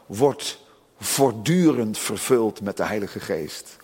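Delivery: "voortdurend" slow and weighted; stress on voortdurend. Shown as a demonstration. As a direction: lean on "voortdurend", draw the phrase out. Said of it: "als je het goed vertaalt". (nadruk op "voortdurend", langzaam)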